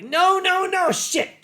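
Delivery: high frantic shout of no; panicked yelling. Retold or imitated. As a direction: yell it in a panic. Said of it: "And I'm like".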